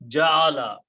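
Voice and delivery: Ja'ala said slowly and distinctly, long first a: jaa-la; Arabic word said clearly. Shown as a demonstration. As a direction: pronounce Ja'ala carefully, long aa then la. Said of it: "Ja'ala is root letters".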